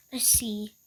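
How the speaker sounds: unvoiced little whisper. Cat peeking at the milk, whispered. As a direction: whisper it as you peek.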